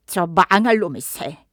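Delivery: a hint of a grumbling old woman cursing the bird. A narrator's reading. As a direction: mutter a mild curse at the parrot. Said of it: "욕을 했다". (늙은 여자가 앵무새에게 가볍게 욕하듯)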